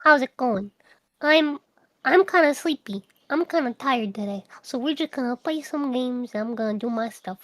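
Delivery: a hint of a sweet sleepy streamer; extra cute streamer. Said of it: "I have times where I'm like".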